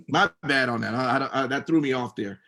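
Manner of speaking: normal talking voice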